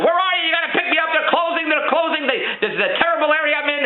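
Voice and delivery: high, anxious wife voice; imitating a worried wife; panicky wife.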